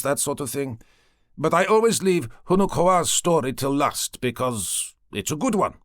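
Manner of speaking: breezy, candid guide; cheerful young man. A narrator's reading. Voices the young cacique.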